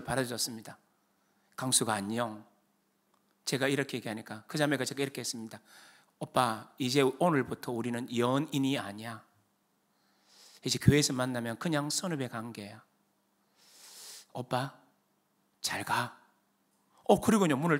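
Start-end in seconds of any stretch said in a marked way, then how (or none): 1.5-2.4 soft, low imitated goodbye; subdued farewell. Girlfriend saying goodbye to her boyfriend, subdued. Girlfriend's parting words in breakup story. 6.2-16.2 soft, low retold breakup; subdued farewell. Girlfriend ending it with her boyfriend at her door, subdued.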